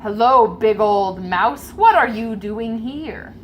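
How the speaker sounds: king. Acted. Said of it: "the king says".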